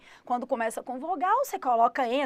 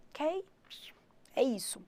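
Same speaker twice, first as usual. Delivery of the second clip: whisper; 6 dB quieter than usual. Real, not acted. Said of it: "teacher wraps up softly".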